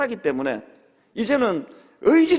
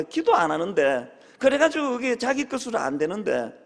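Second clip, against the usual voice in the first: ordinary talk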